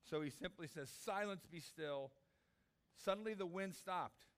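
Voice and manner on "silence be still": simple authority. Shown as a demonstration. Jesus simply commands the wind and waves, with authority. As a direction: command it simply, first word raised. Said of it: "He just speaks with authority".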